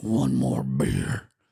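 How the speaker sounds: very deep, rough, guttural demonic growl. Retelling a story, quoting Smitty suddenly speaking up in a guttural demon voice. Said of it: "comes this guttural demon voice".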